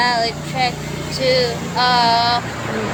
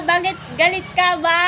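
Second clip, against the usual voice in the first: higher, louder playful whine, stretching out ba; mock whiny; 8 semitones higher, 5 dB louder, faster than usual. Streamer asking mom again why she's angry, playful higher whine. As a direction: ask it like a pouting kid.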